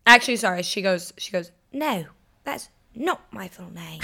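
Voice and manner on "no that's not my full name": put-on slow little British child voice; tiny tot with a British accent; baby British accent. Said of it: "it's a cute little baby accent".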